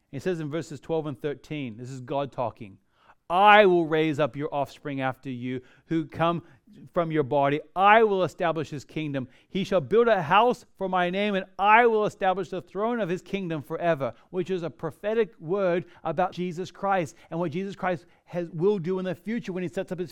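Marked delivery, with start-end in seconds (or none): 3.3-14.1 scripture reading. Acted.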